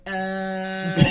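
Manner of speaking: loud, long metal scream; comic all-out metal screech. Shown as a demonstration. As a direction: scream like a metal singer, then laugh. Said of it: "the most metal scream in the world".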